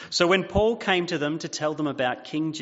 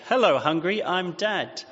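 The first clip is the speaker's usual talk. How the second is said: dad joke; 4 semitones higher than usual. Retold or imitated. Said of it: "my father would say".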